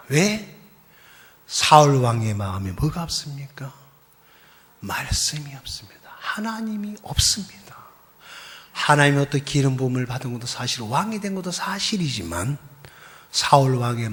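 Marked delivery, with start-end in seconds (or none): 4.8-7.7 fast, soft whisper; whispered warning. Real, not acted. Pastor whispering the warning to the congregation. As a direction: hush it like a grave warning.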